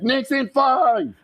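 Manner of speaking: high, drawn-out fan's victory holler; retold yell. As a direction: yell it back like an elated fan in the street. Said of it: "And I'm yelling back".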